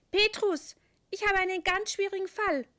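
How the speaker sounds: high, loud call across the room. Acted. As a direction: call up to the boss. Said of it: "ruft der Engel seinem Chef zu".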